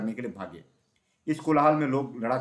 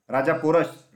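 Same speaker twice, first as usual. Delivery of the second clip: loud, higher-pitched narrated call; raised, urgent cry of a name; 4 semitones higher, 7 dB louder, slower than usual. A narrator's reading. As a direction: call out to the king. Calling to the fallen king.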